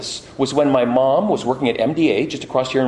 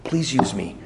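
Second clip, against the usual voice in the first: whispered plea; 3 semitones lower, 4 dB quieter than usual. Retold or imitated. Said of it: "I'll say".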